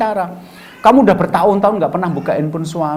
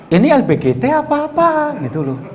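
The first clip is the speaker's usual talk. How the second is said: mock shock; 9 semitones higher than usual. Wife shocked at the SMS.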